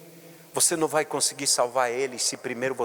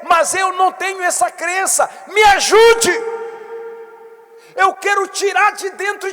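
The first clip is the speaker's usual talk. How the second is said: much higher and louder, crying out for help; fervent shouted prayer; 12 semitones higher, 7 dB louder than usual. Shown as a demonstration. Bishop prays aloud as the hurting believer, shouting. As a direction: pray it at the top of your voice.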